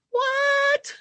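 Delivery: high, loud incredulous what; a shocked intern blurting it out; imitated astonished what; stunned intern. Intern stunned by patient's answer.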